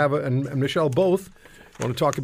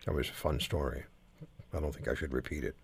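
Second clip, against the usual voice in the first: bashful; 11 semitones lower, 12 dB quieter than usual. Real, not acted. Coy about telling a story.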